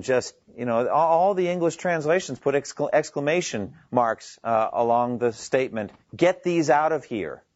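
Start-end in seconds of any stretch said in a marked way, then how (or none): 6.2-7.4 indignant rebuke, pitched up, mildly heated; mildly indignant outburst at wrongdoers; impassioned rebuke. Acted. Jesus driving the money changers out of the temple, impassioned rebuke. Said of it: "They weren't said plainly or with no emotion".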